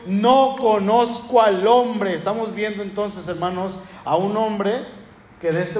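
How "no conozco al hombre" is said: cursing denial. Retold or imitated. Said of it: "Negación con maldiciones y con juramentos".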